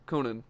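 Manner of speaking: Conan with a short, reduced second syllable; Conan with short ending. Shown as a demonstration. Practising the corrected name, Conan with short ending. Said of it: "prefer keeping it short".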